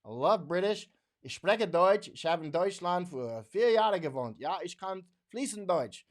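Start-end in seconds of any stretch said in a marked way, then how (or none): 1.2-6.1 speaking German. Shown as a demonstration. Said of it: "I mean, I speak German".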